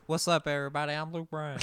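a variant country star hello; change up the greeting; offering a new take on the hello; a country singer. Retold or imitated. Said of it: "change it up for you".

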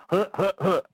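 imitating Tim Allen's grunting huh huh huh; low mock grunt like Tim Allen. Caller doing his version of Tim Allen's grunt. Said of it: "That's my version of what he says there".

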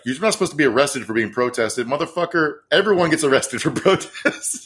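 mock whiny protester. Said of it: "chuds were whining online".

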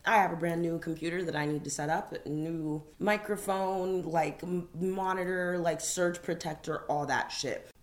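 muffled, talking round teeth whitening. Real, not acted. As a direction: speak through a whitening tray. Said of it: "if I sound a bit muffled right now".

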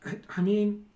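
a put-upon goblin grumbling about no time; goblin boss voice. Acted.

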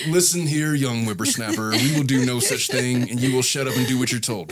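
put-on gruff old boss scolding; cranky old-timer putting him down; old prospector. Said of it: "He's like".

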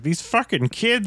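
put-on exasperated puppet voice, drawn out; Bert. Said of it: "you basically hear, like, Bert".

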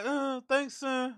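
mock curt thanks through clenched teeth; cold contempt. DJ coldly dismissing an eager fan, mock curt thanks. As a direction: brush him off, high and soft. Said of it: "talks to you with their teeth clenched".

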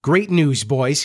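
lightly excited cry; glad cry. Acted. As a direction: call out the news brightly at first. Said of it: "he cried".

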